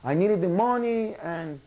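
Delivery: high-pitched pleading impression; Federico Pagani. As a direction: plead your case to the crowd in a put-on high voice. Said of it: "he quickly follows up and he tells him".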